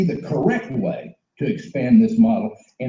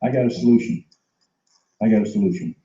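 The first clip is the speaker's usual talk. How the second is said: softer solution pitch; 3 semitones lower, 3 dB quieter than usual. Acted. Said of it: "We're bringing it to them by saying".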